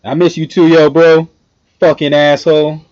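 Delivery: mock-abusive shout. Streamer answering his absent bro, jokey loud shout. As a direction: shout affectionate abuse at a buddy.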